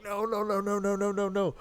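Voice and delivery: high, sustained string of protests; retold dismay. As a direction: plead against what you see, pitch held way up. Re-enacts reaction to knockdown.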